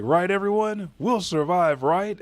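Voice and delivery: high, loud pleading questions; mock desperate cheer while plummeting; acted anxious optimism. Plummeting optimist seeks reassurance, retold.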